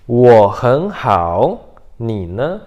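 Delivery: 我很好 loud and very drawn out, then slow 你呢; tone demo. Shown as a demonstration. Teacher repeats for learners, 我很好 loud and syllable by syllable. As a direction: stretch each syllable, rising on 很. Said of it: "Então, de novo".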